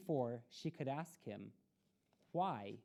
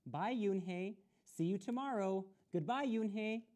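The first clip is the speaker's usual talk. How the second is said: higher, bright friendly farewells; cheerful goodbyes; 6 semitones higher, 4 dB louder than usual. A narrator's reading. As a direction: call goodbye to a new friend.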